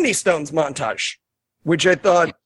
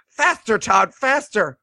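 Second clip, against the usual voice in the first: mock urgency; 2 semitones higher, slower than usual. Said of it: "she goes".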